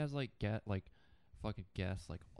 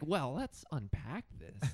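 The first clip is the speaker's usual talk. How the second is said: higher, slow, drawn-out podcast host; mock sensitive podcast host; 5 semitones higher, slower than usual. Guest mimics an overly sensitive public radio show, mock patronizing. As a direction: stretch it out as if explaining to a small child. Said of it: "be talked to like a four-year-old".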